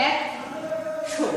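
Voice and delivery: slowly and softly, একশো as eksho; ধীরে ধীরে উচ্চারণ দেখানো; slow demo. Shown as a demonstration. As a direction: spell it out slowly for the class. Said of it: "এই উচ্চারণ করছি আমরা".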